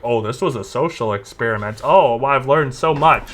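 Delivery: lightly put-on phony contrite voice; mock a lame excuse, slowing down at the end; mock caught YouTuber. Imitating YouTubers caught doing dumb stuff, mock contrition. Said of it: "whenever they get caught doing dumb stuff".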